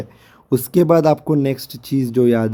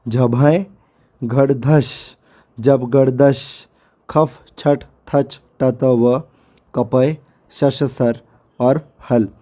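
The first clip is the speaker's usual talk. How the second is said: slow, deliberate sutra recitation; reciting again; much slower than usual. Shown as a demonstration. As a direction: read each sutra aloud with pauses. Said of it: "तो मैं फिर से एक बार पढ़ता हूँ". (सूत्र फिर से धीरे-धीरे पढ़ना)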